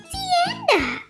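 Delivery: Tienda sung out high, TYEN-dah; Spanish word. Shown as a demonstration. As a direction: say Tienda brightly. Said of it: "Here's a tienda".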